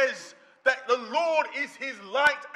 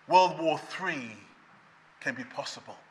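quoting an analyst; 10 semitones lower, 6 dB quieter than usual. Retold or imitated. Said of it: "analysis guy speaking".

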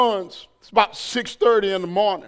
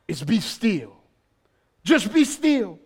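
hushed; 3 semitones lower, 6 dB quieter than usual. Acted. God's words softly spoken.

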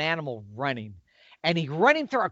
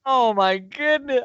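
dismayed exclamation; 7 semitones higher, 4 dB louder, slower than usual. Retold or imitated. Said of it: "And I was like".

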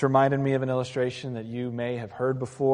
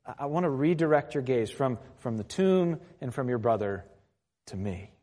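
gentle Jesus. Retold or imitated. Jesus redirects grieving sister's gaze to himself, gently. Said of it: "Jesus just gently says".

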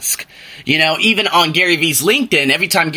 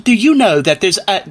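higher-pitched mock British accent; 5 semitones higher than usual. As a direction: put on a British accent for the older guy. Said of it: "that's the British accent".

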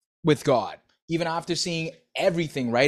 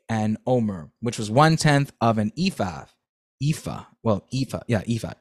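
steady, clear Bible reading voice; scripture reading; 4 dB louder than usual. Acted. Reader to listeners, reading Exodus steadily aloud. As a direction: read the passage aloud with care.

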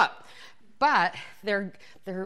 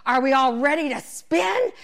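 raised, louder imitated fitness instructor; instructor rallying class; 3 semitones higher, 5 dB louder than usual. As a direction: call out to the whole spin class.

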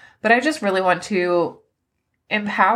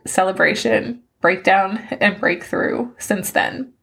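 reading through tears. Real, not acted. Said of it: "As I sit here bawling".

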